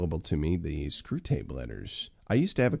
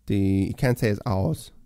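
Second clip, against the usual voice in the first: British r-less; 2 semitones higher, 3 dB louder than usual. Retold or imitated. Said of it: "I'm sounding like, uh, that British talk show host".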